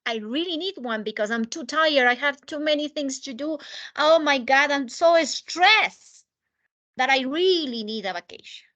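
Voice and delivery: mock stressed-out plea, building to "so stressed"; acted desperation. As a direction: act desperate for a break, stretching key words. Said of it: "Like you're desperate for it".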